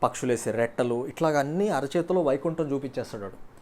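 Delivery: put-on playboy charming his girlfriend with grand promises; intoxicating sweet talk. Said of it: "మత్తు మత్తు మాటలు చెప్తే చాలు".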